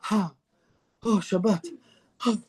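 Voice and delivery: mock relaxed arrival, with sighs; acted sighing relief. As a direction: breathe out as if finally off duty. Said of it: "we're like".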